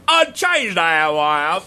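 put-on British accent. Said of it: "That's British".

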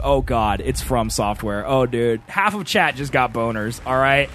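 a hint of breathy drama; dramatic breathy voice. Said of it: "I'm gonna read everything on this dramatic, breathy voice".

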